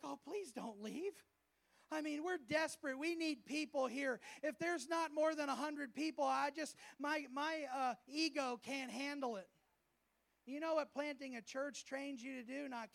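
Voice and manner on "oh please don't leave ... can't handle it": lightly pleading, needy leader; mock desperate leader. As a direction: beg them to stay, half mocking. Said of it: "our version of leadership is like".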